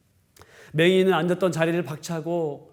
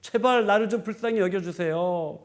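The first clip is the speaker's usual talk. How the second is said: anguished plea; 3 semitones higher than usual. Retold or imitated. Beggar pleading with Jesus to be heard, a building cry. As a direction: beg to be heard, building at the end. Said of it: "바디메오가 절규하고 있습니다".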